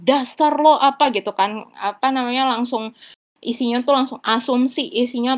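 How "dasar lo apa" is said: a bit higher and louder, irritated; snappy irritated thought. Retold or imitated. Annoyed thought at a partner, sharp and irritated. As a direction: snap at your partner in your head. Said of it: "di otak kita kan biasanya kayak".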